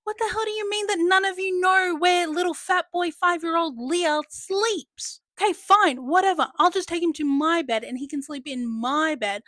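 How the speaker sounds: high, loud scolding rant; bossy old nanny scolding the family loudly; exasperated Nanny. Retold or imitated. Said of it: "That's what Nanny is like".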